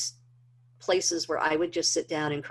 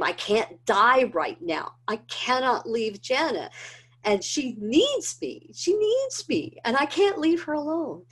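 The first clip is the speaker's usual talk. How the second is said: high, breaking, pleading cry; desperate pleading; 7 semitones higher than usual. Retold or imitated. Alone on the floor, begging God to let her live, tearful. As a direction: beg God not to take her from her daughter.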